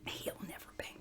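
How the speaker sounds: breathy whispered aside. Real, not acted.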